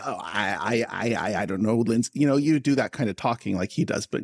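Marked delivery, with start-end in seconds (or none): 0.0-2.1 low, muttering stammer to oneself; Woody Allen stutter. Acted. Host showing co-host the rhythm in their own voice, stuttering Woody Allen. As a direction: stutter over the first word, talking to yourself. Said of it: "you'd stutter a lot and talk to yourself".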